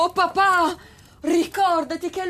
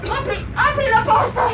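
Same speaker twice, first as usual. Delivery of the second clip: urgent shouting; 2 semitones higher than usual. Acted. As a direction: bark out commands in a hurry. Escaping the smoke. (ordini urlati)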